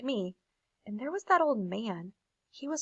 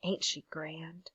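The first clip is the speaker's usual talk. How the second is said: awed murmur; 4 semitones lower, 9 dB quieter, slower than usual. Acted. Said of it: "as if he'd forgotten I was there".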